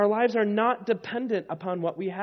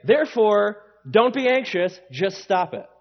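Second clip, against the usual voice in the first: mock blunt order; 7 dB louder than usual. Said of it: "He doesn't say".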